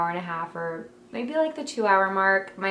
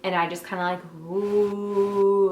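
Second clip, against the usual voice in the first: breathing woo; slower than usual. Shown as a demonstration. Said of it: "I bend over kinda like this".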